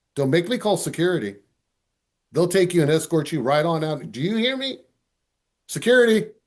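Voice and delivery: put-on tongue-in-cheek sarcasm, swooping pitch. Retelling a warning to a misbehaving kid: imitating own sarcastic warning. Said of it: "sarcasm comes out and says".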